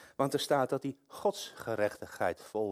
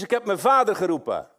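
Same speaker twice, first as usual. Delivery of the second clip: boasting schoolkid; 8 semitones higher, 9 dB louder than usual. Pretend.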